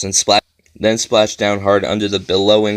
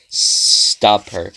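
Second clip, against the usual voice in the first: tiny voice. A narrator's reading. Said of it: "a tiny voice repeated".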